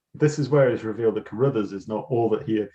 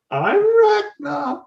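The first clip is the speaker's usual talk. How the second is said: high, very slow, louder grand announcement; hammed-up villain reveal; 6 dB louder, much slower than usual. Host mocking Ragnar's big name reveal, high and very slow. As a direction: draw out the name like a camp baddie. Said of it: "He says he's Ragnar by saying".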